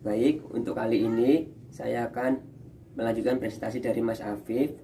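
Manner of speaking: muffled behind a face mask; talking through a mask with a cold. Real, not acted. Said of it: "saya pakai masker, agak flu".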